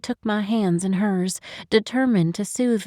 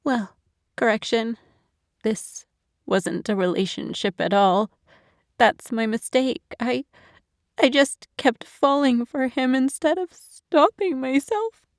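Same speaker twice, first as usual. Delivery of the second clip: tearful; 5 semitones higher than usual. Acted. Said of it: "she sobbed through her statement".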